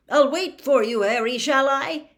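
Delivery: keen to tag along; hopeful official pressing to help; eager Bagman. Acted.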